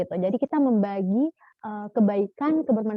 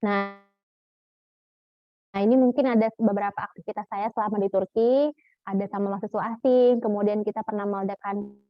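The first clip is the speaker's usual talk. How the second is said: glitchy dropouts like a failing call; choppy breaking-up audio. Real, not acted. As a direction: voice cutting in and out over a bad connection. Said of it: "suaranya putus-putus". (suara putus-putus)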